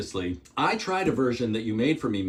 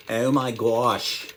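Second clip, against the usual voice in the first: slow, drawn-out Pittsburgh accent; a touch of Pittsburgh in stretched vowels; Pittsburghese accent; 2 semitones lower, slower than usual. Real, not acted. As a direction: let a bit of Pittsburghese slip out. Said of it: "some of my Pittsburghese accent slipped out".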